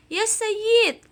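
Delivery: high, loud call to the seller. Acted. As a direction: call the shopkeeper brightly. Karim calls out to seller. (memanggil penjual dengan suara tinggi dan keras)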